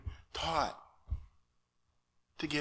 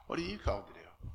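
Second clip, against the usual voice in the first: whisper; 6 semitones lower, 7 dB quieter than usual. Acted. Asks himself inwardly.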